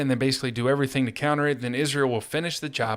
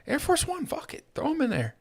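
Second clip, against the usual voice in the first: mock Trump; 3 dB quieter than usual. Mocking Trump's careless voice.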